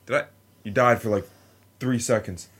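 angry yelling at rescuers; mock outrage at being revived; mad. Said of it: "I would wake up and be so mad".

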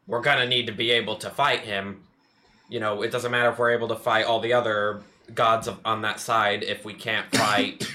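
a touch of a theatrical magician. Acted. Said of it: "In the magician's voice".

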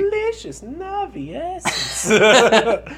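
high, slow, loud monster croon; hungry monster. Pretend. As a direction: savor each word hungrily.

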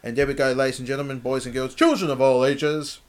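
ringmaster announcer. Pretend. Mock ringmaster announcing the punchline.

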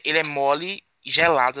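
ordinary talk, nothing marked

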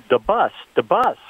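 imitating a West African French speaker's accent; imitating a big accent. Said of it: "with a big accent".

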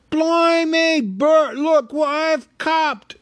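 loud, rough cockney troll. A narrator's reading. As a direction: bellow it like a pleased troll. Troll William speaks.

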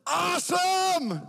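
high, drawn-out loud whoop; gleeful cheer. Acted. Fan who knows his losing team will win, gleeful high cheer. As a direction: belt it out like a thrilled fan.

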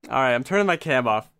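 talking through a nosebleed. Real, not acted. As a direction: speak like your nose is bleeding. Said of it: "My nose is bleeding".

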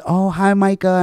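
high, sing-out mock hello; put-on high-pitched greeting; mock sweet greeting. Imitating her cheery interrupting greeting.

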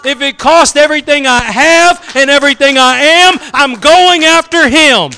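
determined. Acted. Preacher voices blind man refusing to be turned away, determined. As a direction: build steadily, slowing into the last vow. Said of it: "A determination".

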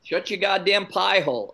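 lightly put-on De Niro movie accent; imitated movie accent. Podcaster recalling a saying from the movie, lightly imitated accent. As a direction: quote the line in his movie accent. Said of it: "That was the accent".

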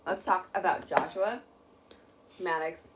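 talking through cracker crumbs; mouth full. Real, not acted. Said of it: "I have cracker in my mouth".

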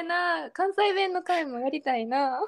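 lightly put-on Kansai accent; a touch of playful Kansai; fake Kansai dialect. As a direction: echo it in a mock Kansai lilt. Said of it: "エセ関西弁で読めばよかったかな".

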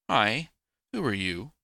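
friendly storybook greeting. A narrator's reading. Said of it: "It was the friendly voice".

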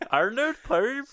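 an unintended accent on "Arnold Palmer"; accidental accent. Real, not acted. Guest slips into an unintended accent on "Arnold Palmer". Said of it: "you're not trying to say an accent".

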